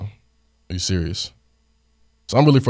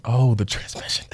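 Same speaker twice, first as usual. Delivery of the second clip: higher-pitched mock realization; retold sarcastic reaction to bad news; 4 semitones higher than usual. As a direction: feign delighted understanding. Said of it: "I'm being sarcastic and whatnot".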